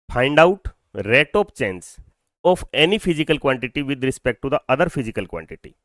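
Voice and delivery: very slow, word by word, for students to write; slow dictation. Shown as a demonstration. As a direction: dictate the definition slowly. Dictates a definition.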